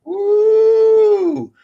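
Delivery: loud, high woo of excitement; sudden high loud cheer; excited whoop. Real, not acted. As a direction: let out a real whoop. Excited whoop mid-talk.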